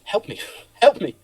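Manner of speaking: slow, high, laughing plea; pleading laughingly. Retold or imitated. Young solicitor silently begging the mentor, high laughing plea. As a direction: beg for help through a laugh. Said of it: "what I meant was".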